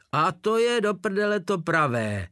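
high-pitched, eager confirmation; fervent. A narrator's reading. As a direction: burst out with glowing enthusiasm. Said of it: "doplnil ho Obergefreiter s planoucí tváří".

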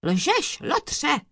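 high, indignant accusation; thundering. A narrator's reading. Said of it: "hřímal soudce".

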